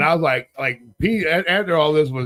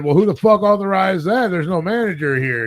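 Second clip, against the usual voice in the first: louder, higher retold demand; indignant challenge; 5 semitones higher, 4 dB louder than usual. Guest challenging clerk's authority to move rooms, indignant. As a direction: demand an answer, acting out the argument.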